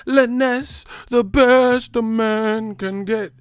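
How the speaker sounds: high, slow, hammed-up ad announcer; mock commercial voice. Mocking the name Liness as a shaving brand ad. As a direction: sell it like a cheesy razor ad. Repeats the razor ad parody.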